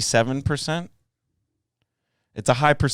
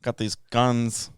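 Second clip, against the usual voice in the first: put-on New York accent; 3 semitones higher, 5 dB louder than usual. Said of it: "giving them, like, a New York".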